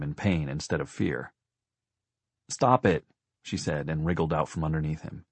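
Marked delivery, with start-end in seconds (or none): 2.5-3.1 higher-pitched, cross command; crossly pitched-up order; annoyed sister. A narrator's reading. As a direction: tell off a little brother. Children sprawling after fall, sister annoyed.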